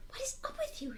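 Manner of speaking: high, soft whispered question; hushed and high, as an aside. A narrator's reading. Girl confronting her friend under her breath, high hushed whisper. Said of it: "she whispered".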